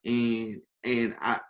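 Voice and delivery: quiet, choked-up admission; holding back tears. Real, not acted. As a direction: speak softly while fighting real tears. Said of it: "I'm over here trying to hold back tears".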